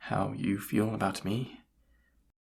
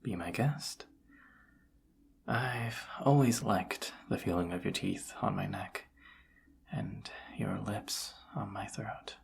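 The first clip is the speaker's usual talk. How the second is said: intimate invitation; 5 dB quieter than usual. Acted. Inviting lover to bite the neck.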